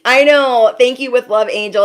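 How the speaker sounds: emotional outburst to a comment; touched exclamation. Real, not acted. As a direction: react touched and moved. Emotional reaction to viewer comment.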